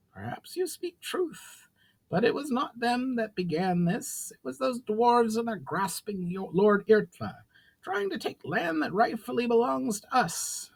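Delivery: a proud goblin lord laying down terms; goblin chief Brawl. Acted. Brawl grudgingly answers.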